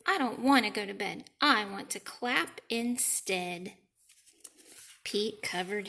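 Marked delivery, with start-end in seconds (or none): 0.1-3.8 grumpy Toad. Acted. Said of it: "said Grumpy Toad".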